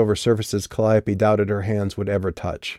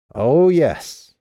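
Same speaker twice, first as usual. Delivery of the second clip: mocking; 7 semitones higher, 4 dB louder than usual. Mock salute to the band.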